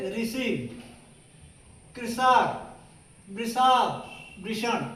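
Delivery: ऋषि, कृषक, वृषभ said with a plain s sound in the middle. Shown as a demonstration. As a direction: read ऋषि as rishi with s. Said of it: "उच्चारण हम स के रूप में करते हैं".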